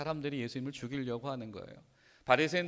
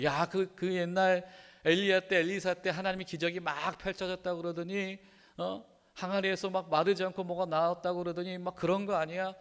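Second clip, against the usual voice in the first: higher-pitched excited chatter, imitating a crowd; delighted crowd; 4 semitones higher than usual. Crowd recalling old miracles after the feeding, excited. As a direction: act out people buzzing over a miracle. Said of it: "사람들이 너무 즐거워".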